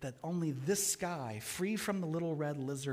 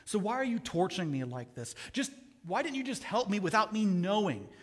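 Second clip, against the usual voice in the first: louder, higher anguished complaint; distressed ghost; 5 semitones higher, 5 dB louder than usual. Acted. Ghost reproaches the angel for hurting him, anguished. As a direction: demand to know why, hurt.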